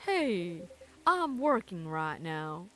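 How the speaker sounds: low, slow officer, mildly defensive; lightly voiced cop brushing off a tease; officer insisting he's on duty, lightly voiced; Georgie voice. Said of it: "Sounds like Georgie".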